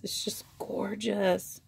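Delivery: slow, hushed whisper of admiration; slow awed whisper over the stitching; admiring whisper. Real, not acted. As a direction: whisper it slowly, in awe.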